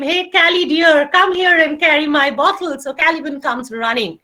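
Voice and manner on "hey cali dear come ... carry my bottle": coaxing call. Retold or imitated. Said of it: "just call him a short name, a nickname".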